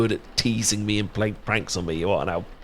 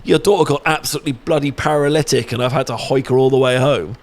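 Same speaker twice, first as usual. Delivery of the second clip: a hammed-up blurted confession to the mother, a touch louder; half-joking telling-off of himself, slightly raised; mock confession to mum; 3 semitones higher, 5 dB louder than usual. Imagining telling her mum the truth, lightly raised mock blurt. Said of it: "I can't tell your mum".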